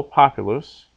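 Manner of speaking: POpulus, first syllable stressed; stress third from last. Shown as a demonstration. Teacher confirming the rule, populus stressed on its first syllable. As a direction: punch the PO of populus. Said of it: "so the accent is on the third".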